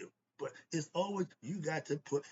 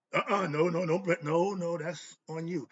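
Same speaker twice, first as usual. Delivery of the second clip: loud, firm string of no's; emphatic refusal; 6 dB louder than usual. Real, not acted. Speaker to listeners refusing marriage excuses, loud and firm. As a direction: shut the excuse down hard.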